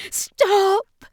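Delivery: shout. Acted. Ashley halts the strange boy's strike, loud shout. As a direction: cut them off with one sharp yell. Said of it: "Ashley shouted".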